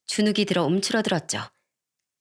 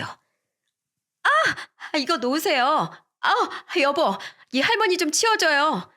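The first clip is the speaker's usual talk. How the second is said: much higher, shrill cries of a woman being pulled by the hair; pained shriek; 8 semitones higher, much slower than usual. Acted. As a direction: yelp and plead for help from her husband. (머리채를 잡힌 여자가 남편에게 비명 지르며)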